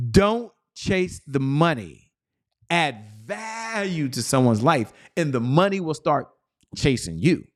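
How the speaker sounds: slow, deliberate punch on each word of "Don't chase the money"; slow emphatic. Shown as a demonstration. Coach repeats the maxim so listeners hear it, slow and emphatic. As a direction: drive the maxim home slowly, pausing between phrases. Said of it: "Let me say it one more time".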